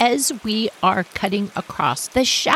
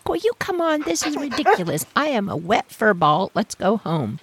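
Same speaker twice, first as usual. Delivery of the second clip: dog complaining; 2 semitones higher than usual. Retold or imitated. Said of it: "crying like".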